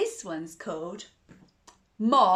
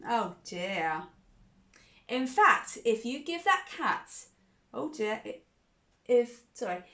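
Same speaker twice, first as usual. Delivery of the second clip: mildly cross dad. Acted. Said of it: "He said".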